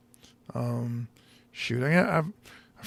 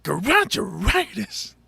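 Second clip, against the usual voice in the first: slow intense garageitis; 3 semitones higher, much slower than usual. Retold or imitated. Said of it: "he was like".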